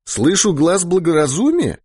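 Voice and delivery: high-pitched, astonished question; amazed. A narrator's reading. Mikhail Antonovich reacts to his comrade's sudden caution, amazed. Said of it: "изумлённо сказал Михаил Антонович".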